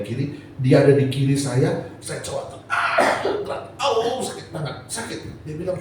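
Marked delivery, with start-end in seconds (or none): 2.7-4.2 acted pain groan. Acts out painful attempt to move.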